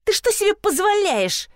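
high angry yelling; flaring up. A narrator's reading. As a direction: flare up at the receptionist. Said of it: "завелась клиентка".

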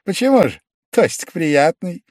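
high, coaxing surprise; wheedling. A narrator's reading. Pavel Pavlovich coaxing Velchaninov to drink, high-pitched. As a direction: sweet-talk a refusal.

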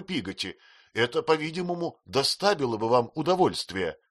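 high, hurt, reproachful voice; tearful young mother. Acted. Mother reproaches the maid, tearful and high. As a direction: complain through tears, sarcastic at the end.

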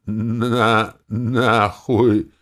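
very slow, stammering curse; stuttering. Acted. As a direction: stumble through each syllable. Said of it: "проговорил мастер Чивагор". (заикаясь и медленно)

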